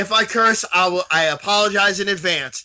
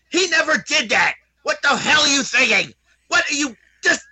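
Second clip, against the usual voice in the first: getting loud; 5 semitones higher than usual. Real, not acted. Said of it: "I'm gonna wake my kids".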